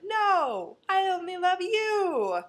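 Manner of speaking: high, loud, hammed-up pleading. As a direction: beg her in a high whiny voice. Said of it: "she's like".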